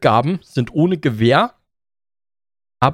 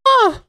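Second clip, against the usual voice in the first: high relieved sigh; 4 dB louder than usual. Pretend. Pretend shower sound.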